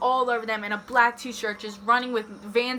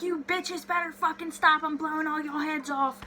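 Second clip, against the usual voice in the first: higher-pitched mock redneck threat; 5 semitones higher, 3 dB quieter than usual. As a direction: act out an angry neighbour's warning. Acting out armed neighbour's threat.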